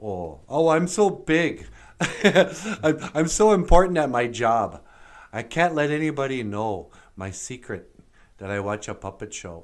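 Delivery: loud, laughing self-important boast; mocking a self-important office worker with a laugh; pompous big shot. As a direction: puff up like a big shot hiding a secret. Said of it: "A lot of people are like".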